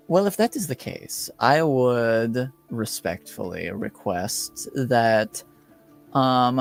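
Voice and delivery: measured, formal request from a displeased noble; a hint of a lordly father, coolly polite; lightly voiced stern lord. Game master voices Lord Vargas.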